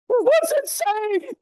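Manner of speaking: put-on spooked boy hearing a strange noise; startled boy. Boy asking mother about the cereal noise, scared and high.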